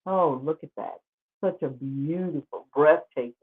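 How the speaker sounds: dry, deadpan praise that means the opposite; sarcastic. Acted. Vlogger mocking the plantation's beauty, dry and sarcastic. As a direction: praise it with a sneer underneath. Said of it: "'cause I'm being sarcastic".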